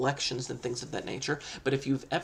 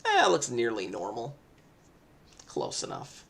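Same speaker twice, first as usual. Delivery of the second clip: mock careless shrug. Teacher mocking a made-up rule, careless shrug. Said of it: "It's like".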